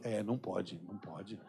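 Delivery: low, very soft mumbled concession; meek agreement. Retold or imitated. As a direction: agree sheepishly, fading almost to nothing. Friend meekly agrees in retold exchange.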